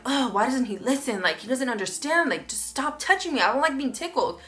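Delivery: exasperated venting, mildly played; retold annoyance. Fuming alone after partner leaves the room, mildly exasperated. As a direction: replay grumbling to yourself after a fight. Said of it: "like, mad".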